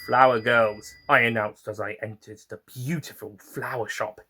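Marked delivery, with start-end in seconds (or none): 0.1-0.9 cheery greeting. Acted. Doctor greets shop on entering.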